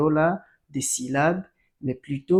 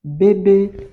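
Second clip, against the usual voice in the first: "Bébé" higher and louder on both syllables; raised voice for accents; 4 semitones higher, 5 dB louder than usual. Shown as a demonstration. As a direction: lift the voice on both é's of "Bébé". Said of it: "J'ajoute les accents parce que la voix monte". (« Bébé » dit la voix haute et forte)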